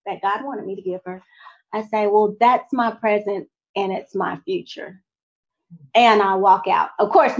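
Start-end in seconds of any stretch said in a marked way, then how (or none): 2.1-5.0 calm, even, respectful reply; steady and respectful, no heat. Retold or imitated. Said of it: "I say very calmly and respectfully".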